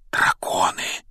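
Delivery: drawn-out breathy whisper; excited whisper. A narrator's reading. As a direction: whisper it like a thrilling discovery. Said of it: "прошептал он".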